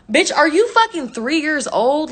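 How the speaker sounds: retold exasperated outburst; incredulous retort.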